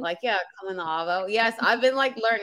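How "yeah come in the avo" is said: imitating Australian phrase. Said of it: "You say afternoon like avo".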